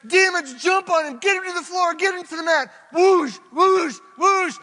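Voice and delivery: high, loud rallying cry, slowing to the end; triumphant shout. Retold or imitated. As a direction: roar the victory like a wrestler standing up. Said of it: "They're shouting".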